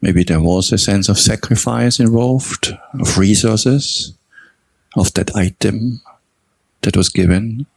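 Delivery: measured meditation guidance with long pauses between phrases; guided meditation. Real, not acted. Teacher guiding meditators to recall their own generosity, unhurried meditation delivery. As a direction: guide them gently through the reflection, phrase by phrase.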